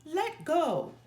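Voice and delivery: put-on a bully barking at the little girl to let go. A narrator's reading. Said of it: "yelled Too Tall".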